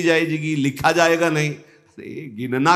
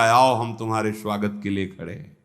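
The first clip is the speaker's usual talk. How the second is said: lower, gently settling voice of welcome; tender welcome; 4 semitones lower, 4 dB quieter, faster than usual. Acted. God welcomes the devotee who finally called, tender welcome. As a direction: receive them gently, voice lowered.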